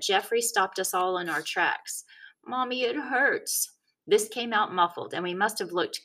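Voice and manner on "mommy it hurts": put-on hurt little kid. A narrator's reading.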